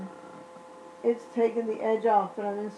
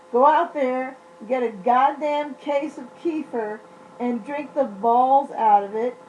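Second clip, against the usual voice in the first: louder, hammering the advice home; emphatic urging; 6 dB louder than usual. Real, not acted. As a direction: push them to go buy it now.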